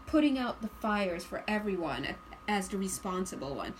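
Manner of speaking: mildly put-upon, as if everything falls on you; burdened responsible one. Acted. Reader imitating the responsible one's intonation, mildly burdened. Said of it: "this energy is your intonation".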